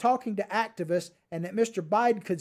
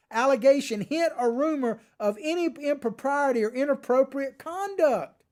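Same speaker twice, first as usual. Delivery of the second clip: reading it out high and raised, half yelling; near scream; 5 semitones higher than usual. Real, not acted. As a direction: voice climbing high as the outrage builds. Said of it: "I started to scream this".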